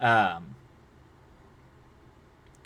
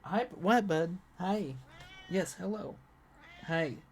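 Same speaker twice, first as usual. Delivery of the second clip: cutesy greeting; 7 semitones higher, 8 dB quieter than usual. Real, not acted. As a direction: coo at the pet sweetly. Greeting a pet or child.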